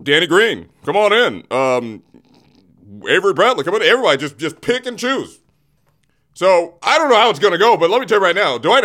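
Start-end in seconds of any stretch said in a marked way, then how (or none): 0.0-5.4 imitating Rob Pelinka. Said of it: "And so Rob Pelinka said".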